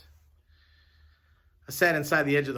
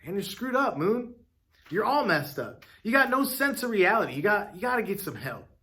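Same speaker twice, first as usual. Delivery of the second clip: shopkeeper voice; 5 semitones higher than usual. Acted. Shopkeeper scolding the narrator.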